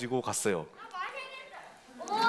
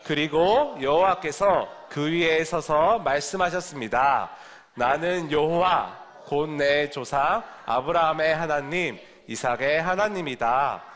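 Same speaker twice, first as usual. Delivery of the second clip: scripture reading; slower than usual. Acted. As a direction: read it out slowly for the class to follow. Reads scripture aloud with the children.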